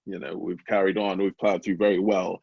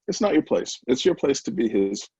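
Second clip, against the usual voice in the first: louder, emphatic retold telling-off; firm fatherly correction; 3 semitones higher, 5 dB louder than usual. Father tells older sons their role as brothers, firm correction. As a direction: set them straight, leaning on each point.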